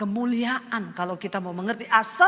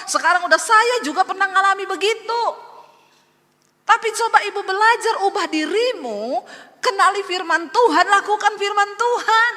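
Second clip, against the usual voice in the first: high, loud pleading sermon; impassioned preaching; 8 semitones higher, 4 dB louder than usual. Acted. Pastor urging troubled wives to change, loud and pleading. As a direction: urge them hard to learn.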